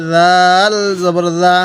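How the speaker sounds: soft buzzing z in "জাল জবর জা"; soft zal. Shown as a demonstration. Teacher shows learners the letter zal, "জাল জবর জা" with a soft z. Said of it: "একটু কি নরম করব".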